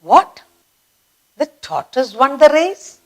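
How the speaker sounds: rising incredulous what; shocked disbelief. Shown as a demonstration. Teacher shows shock that the tortoise won. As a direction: sound shocked at the news. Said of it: "You are so shocked".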